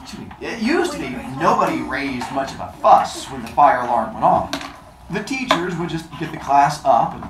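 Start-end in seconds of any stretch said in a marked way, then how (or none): 0.4-4.5 story narration. Acted. Teacher reads novel aloud. 5.1-7.2 reading through hiccups; hiccuping mid-sentence. Real, not acted. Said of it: "sorry, hiccup".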